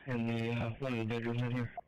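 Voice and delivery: loud, pressed radio report from inside; urgent firefighter radio. Real, not acted. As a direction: call it in loud over the noise. Firefighter radios from inside burning house.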